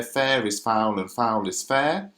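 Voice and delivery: "Fair is foul and foul is fair" with weight on Fair, foul, foul, fair; trochaic stress. Shown as a demonstration. Teacher illustrating a trochee, measured stress on "Fair", "foul", "foul", "fair". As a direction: stress the first of each pair in "Fair is foul and foul is fair". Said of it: "a stressed followed by an unstressed".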